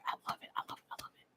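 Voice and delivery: fading to a tiny whisper; overcome gushing. Real, not acted. Fan overcome by the backstory, whispered adoration. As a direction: trail away breathless with adoration.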